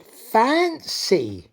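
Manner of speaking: high, loud little gasp of a word; surprised exclamation. Acted. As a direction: sound truly taken aback. Dairymaid surprised by cow.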